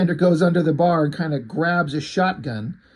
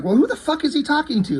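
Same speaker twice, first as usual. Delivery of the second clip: mock exasperation; 12 semitones higher than usual. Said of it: "I was kind of pissed off".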